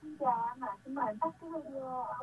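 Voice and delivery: faint delayed radio feedback; last word echo. Real, not acted. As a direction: echo fading into the distance. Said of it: "không tắt được cái radio".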